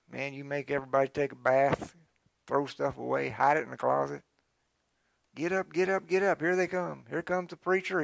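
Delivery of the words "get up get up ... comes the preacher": frantic hostess. Retold or imitated. Hostess rushing family before guests.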